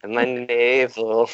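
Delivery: slow, dreamy singer voice; drawn-out, moody singer impression. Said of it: "can you try to say it in his voice".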